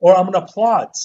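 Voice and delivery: loud, emphatic parody; mock Southern claim. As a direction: insist loudly like a bad actor. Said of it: "They went".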